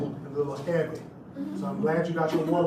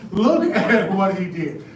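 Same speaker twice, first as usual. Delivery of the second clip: loud call; 3 semitones higher, 9 dB louder, slower than usual. Retold or imitated. Master summons botanists.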